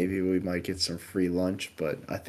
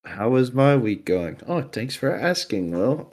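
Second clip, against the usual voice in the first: sarcastic self-prompt; 3 semitones higher than usual. Pretend. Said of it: "asks himself, answers for the host".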